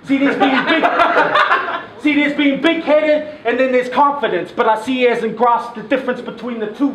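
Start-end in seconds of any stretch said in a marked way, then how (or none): 0.0-3.4 laughing through the line. Real, not acted. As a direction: chuckle while rapping.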